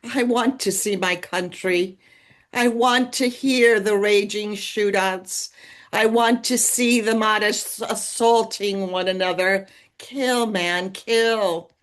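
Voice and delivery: a touch of bitter sarcasm in a recited line; sarcastic. Retold or imitated. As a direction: say it with mild mock longing. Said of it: "And I say sarcastically".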